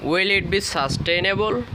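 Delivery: very slow, rising on "question"; slow model question. Shown as a demonstration. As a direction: ask it word by word for learners. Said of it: "এইভাবে করবো".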